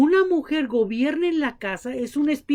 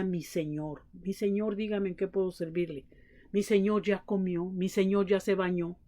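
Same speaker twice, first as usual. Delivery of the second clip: submissive wife; 5 semitones lower, 9 dB quieter than usual. Retold or imitated. Mother addresses father respectfully.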